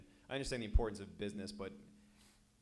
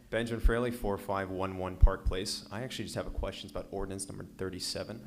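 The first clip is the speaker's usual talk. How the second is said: naturally booming, much louder than his usual talk; 12 dB louder than usual. Real, not acted. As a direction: speak out big and loud into the mic. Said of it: "I've got a loud voice".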